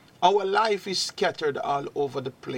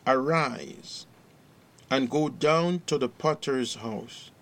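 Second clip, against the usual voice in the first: measured, solemn Bible reading in short phrases; scripture reading. Acted. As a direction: read scripture out with pauses between phrases. Reads scripture aloud to congregation.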